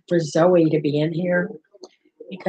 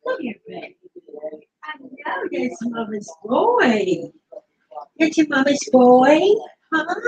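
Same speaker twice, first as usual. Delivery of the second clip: higher cooing praise for the pet; 5 semitones higher than usual. Real, not acted. Owner praising her pet as Mama's boy, higher cooing.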